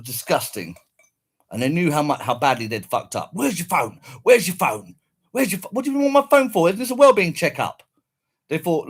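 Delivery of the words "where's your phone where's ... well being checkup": retold indignation. Retold confrontation with police.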